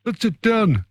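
hammy mock Greek accent, just for a laugh; playful fake Greek accent on a quiz show. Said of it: "That's my Greek accent. That's terrible".

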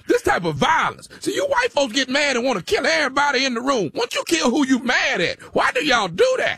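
mock-outraged rant; emphatic, provoking tirade; indignant shouting. Prankster's acted quarrel escalates.

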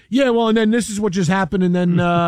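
put-on a light New York accent, quick and casual; imitating a caller with a New York accent; mock New York accent. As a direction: toss it off like a New York guy on the phone. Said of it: "a New York accent".

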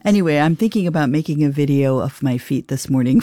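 talking through a laugh; amused, laughing while speaking. Real, not acted. Joking about filming her feet.

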